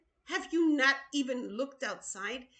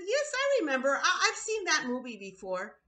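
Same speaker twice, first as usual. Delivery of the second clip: mocking laugh; faster than usual. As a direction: imitate a scoffer laughing it off. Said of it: "they're mocking the Lord".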